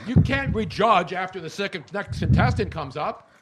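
audible breaths between words; heavy nose breathing. Real, not acted. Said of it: "Joe, stop breathing into the mic".

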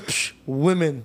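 put-on slow, scoffing old man; scoff, then drag the word out dismissively; imitated dismissive scoff. Old man sharing a look with driver, dismissive. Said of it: "Like that".

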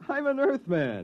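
high, slow and emphatic; insistent. Acted. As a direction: spell it out, exasperated. Insisting, exasperated.

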